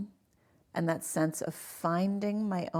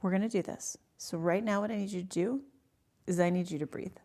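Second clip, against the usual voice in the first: measured, calm quoted reassurance; utter calm. Retold or imitated. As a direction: guide a patient steadily, as the doctor did. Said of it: "it was utter calm".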